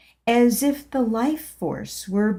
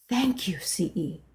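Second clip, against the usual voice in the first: happily proclaimed; 5 dB quieter than usual. Acted. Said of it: "I happily proclaimed".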